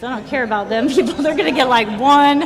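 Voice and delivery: hammed-up greedy brag, rising to loud and high; mock greedy boast, hogging the beer. Retelling greedy drinking plan.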